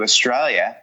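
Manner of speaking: lightly Australian-accented Australia; a touch of Aussie accent on the place name; Australian pronunciation. Real, not acted. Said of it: "You said that even in the right way".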